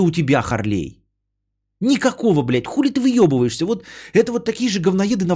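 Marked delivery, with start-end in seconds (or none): none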